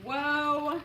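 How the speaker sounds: loud amazed whoa; surprised whoa. Real, not acted. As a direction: wow at the sheer length of the word. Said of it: "amazed at a long word".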